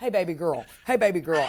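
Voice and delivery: put-on Southern American accent. Describing her father's way of talking, imitating her Southern dad. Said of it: "My dad was such a Southern guy".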